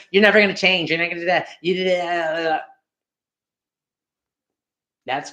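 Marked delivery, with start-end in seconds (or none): 0.1-2.6 raised, scolding rant trailing into gibberish; mock nagging spouse. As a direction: nag on and on in mockery. Acts out a nagging wife.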